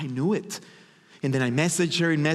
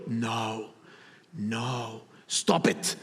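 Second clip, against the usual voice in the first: much softer and lower, the last words whispered; hushed no; 6 semitones lower, 5 dB quieter, much slower than usual. Retold or imitated. His calmer self hushing his ego, soft and low. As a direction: shush the ego under your breath. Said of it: "My ego wanting to get in the way".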